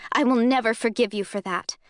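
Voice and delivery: a touch of bitter, cutting anger; mild acidic snap at the man who hurt her. Acted. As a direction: spit it out with acid in the voice. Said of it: "I snap, acid in my voice".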